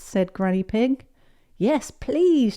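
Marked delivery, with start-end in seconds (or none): 1.6-2.6 put-on high, eager child's cheer. A narrator's reading. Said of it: "cheered Peppa and George".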